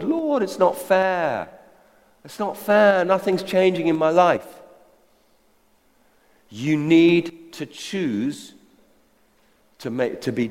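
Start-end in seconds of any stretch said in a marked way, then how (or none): 0.0-4.5 mock whining. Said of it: "whinging and complaining to the Lord".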